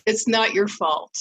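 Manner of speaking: slow, gentle reassurance; reassuring magic words. Shown as a demonstration. Coach demos soothing words for a husband, slow and warm. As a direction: ease his guilt, slowly and kindly. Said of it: "these are magic words for a man to hear".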